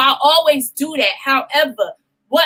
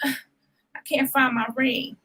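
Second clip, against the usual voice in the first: defeated confession; 6 dB quieter, much slower than usual. Retold or imitated. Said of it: "And I'm like".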